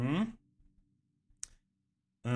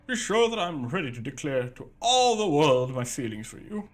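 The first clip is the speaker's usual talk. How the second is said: mushy love letter voice; 6 semitones higher, 4 dB louder than usual. Acted. Reading a love letter aloud.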